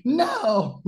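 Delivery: high, loud wail of denial; stunned high no. Retold or imitated. Bobby refusing to believe it, high and loud. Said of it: "Bobby's shocked denial".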